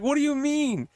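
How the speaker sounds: very high-pitched mock disbelief; mock bewildered friend. Friend questioning the panicking woman, mock bewilderment. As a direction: imitate a baffled friend, voice way up.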